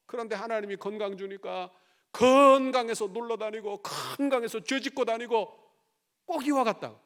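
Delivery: loud, high, urgent sermon voice; fiery preaching. Acted. Pastor rebuking the congregation, fiery preaching. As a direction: drive the point home to the congregation.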